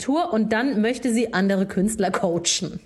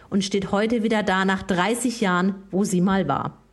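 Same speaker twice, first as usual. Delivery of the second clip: reading lyrics like a poem; solemn mock poetry reading; dramatic reading. Reads song lyrics aloud.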